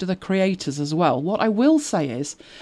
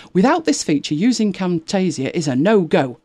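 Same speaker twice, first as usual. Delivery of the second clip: whining complaint. Acted. Host reading a forum ultimatum about Camtasia, mock-indignant whine. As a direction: declare it like an affronted customer, hammed up. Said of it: "I'm gonna need to practice the high-pitched whine".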